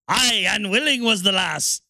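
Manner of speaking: lightly voiced Irish "Aye, unwilling was the lass"; hint of an Irish pirate lilt; mock Irish. Shown as a demonstration. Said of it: "written by a fucking drunkard and Irishman".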